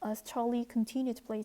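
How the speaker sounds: very slow, deliberate English read-aloud. Shown as a demonstration. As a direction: read each word slowly for learners. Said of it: "reads the English text slowly".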